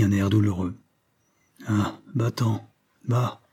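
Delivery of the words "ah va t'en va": slow, tired dismissal; weary. Acted. Old professor dismisses the narrator in a weary tone. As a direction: wave him off, worn out. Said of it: "me dit-il d'un ton las".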